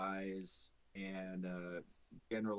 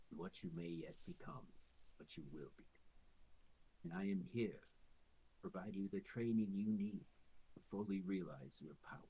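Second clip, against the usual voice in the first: sinister creature; 3 dB quieter than usual. Acted. Quasit promising training.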